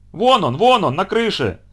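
high excited shout, pointing; соседка кричит. Acted. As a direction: call out spotting the cat. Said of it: "закричала соседка". (соседка кричит, увидев кота на крыше)

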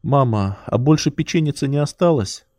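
put-on drowsy child, half awake; sleepy voice, words still heavy with sleep. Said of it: "спросила сонным голосом".

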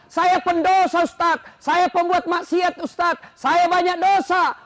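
loud, slow desperate plea to the preacher; pleading cry. Acted. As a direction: cry out your sins, drawn out and loud.

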